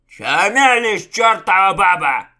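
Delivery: high, loud furious outburst; flaring up. A narrator's reading. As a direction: snap in sudden rage. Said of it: "вспылил Угрим".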